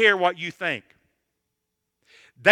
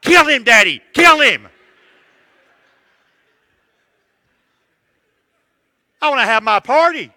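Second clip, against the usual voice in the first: much louder and higher, a hammed-up child's scream; 6 semitones higher, 12 dB louder than usual. Little boy screams at his dad to kill the turtle: mock child's yell. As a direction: belt it out like a furious five-year-old. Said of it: "he began to scream and cry".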